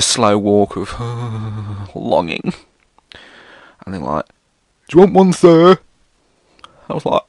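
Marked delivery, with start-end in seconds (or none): 4.9-5.8 pushy vendor. Retold or imitated. Pushy vendor voiced in story.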